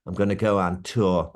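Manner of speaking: put-on refined London accent; smoothed-out Cockney with a little rasp; posh-leaning London impression of a singer. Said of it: "and then you've got Bowie".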